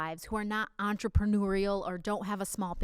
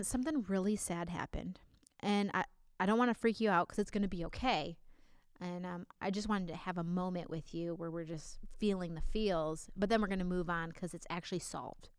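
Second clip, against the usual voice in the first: gentle reassuring demo; 4 semitones lower, 4 dB quieter than usual. Shown as a demonstration. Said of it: "you'll say something like this".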